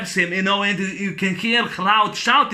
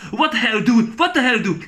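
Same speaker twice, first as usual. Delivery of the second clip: higher, heated imitation of an annoyed trainer; mock angry trainer; 4 semitones higher, 3 dB louder than usual. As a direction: bark it like a fed-up coach, half in fun. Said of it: "Apollo gets mad and says".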